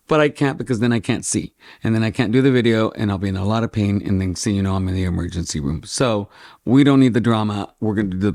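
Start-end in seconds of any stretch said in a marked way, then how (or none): 0.1-5.8 rushed melodrama. Real, not acted. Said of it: "I can be a little melodramatic".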